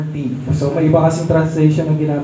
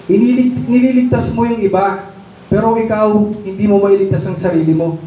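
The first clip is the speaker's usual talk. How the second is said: higher, taunting voice of the rulers; mocking taunt; 4 semitones higher than usual. Preacher voicing the rulers jeering at Jesus, higher and mocking. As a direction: sneer it up like a jeering crowd. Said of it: "sabi ng mga rulers".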